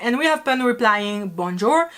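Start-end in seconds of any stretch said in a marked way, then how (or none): 1.3-1.9 bonjour as a non-native says it; foreigner's French accent. Retold or imitated. Teacher imitating the actor's reply, in a foreigner's French accent. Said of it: "completely leans into that bonjour".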